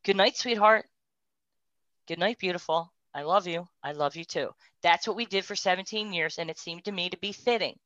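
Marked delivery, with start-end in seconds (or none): 0.0-4.5 softly spoken, loving bedtime words; a gentle, fading goodnight to a husband; tender goodnight. Retold or imitated. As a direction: murmur it like every night in bed. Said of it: "the same thing I've said to him every night".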